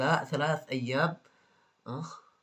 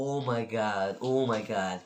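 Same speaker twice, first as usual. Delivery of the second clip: exasperated sigh; 4 semitones lower, much slower than usual. Real, not acted. Exasperated reaction.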